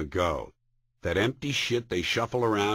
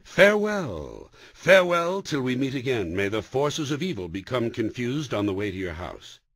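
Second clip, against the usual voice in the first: grand farewell. Retold or imitated. Comedian showing off his new grand goodbye to people, solemn and hammed-up. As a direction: intone it like an old blessing. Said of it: "Now I say".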